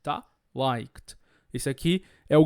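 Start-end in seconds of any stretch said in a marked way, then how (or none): 0.6-1.2 low LIKED, one syllable ending in KT. Shown as a demonstration. Teacher modelling LIKED in low voice with a T ending. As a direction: add a voiceless T after the K in LIKED. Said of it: "como se eu colocasse um T ali".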